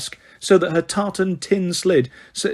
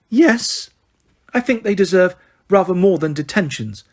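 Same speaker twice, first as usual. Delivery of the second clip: high, simpering voice; sweet toadlike witch; 3 semitones higher than usual. Acted. Umbridge interrupting McGonagall, simpering. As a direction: coo the threat.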